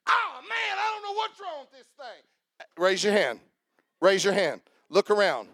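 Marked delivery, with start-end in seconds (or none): 0.1-2.7 high, exasperated golfer grumbling at his club; mock frustration. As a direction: sound fed up with the club. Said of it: "You say".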